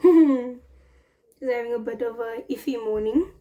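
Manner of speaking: talking round a sweet; words shaped by a candy in the mouth; sucking a hard candy. Real, not acted. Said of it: "I have a sweet in my mouth".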